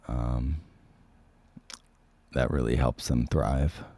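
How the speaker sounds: hoarse voice from a cold; sick voice. Real, not acted. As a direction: speak through a sore, sick throat. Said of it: "You guys hear my sick voice?".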